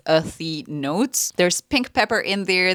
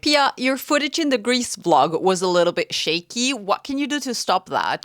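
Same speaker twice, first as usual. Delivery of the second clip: a light mock dad voice, a bit higher; fatherly voice; 4 semitones higher than usual. Vlogger quoting her dad, lightly fatherly mock voice. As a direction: gently imitate a concerned father. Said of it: "in a very fatherly manner".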